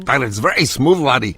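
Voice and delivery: a lightly put-on Irish brogue; playful mock Irish lilt on the coffee praise; terrible Irish accent. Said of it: "Tanya said you do a terrible accent".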